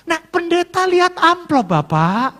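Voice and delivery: high, loud, drawn-out exclamation; mock excitement. Pastor joking about seeing an envelope, mock excited. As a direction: stretch it out in comic excitement.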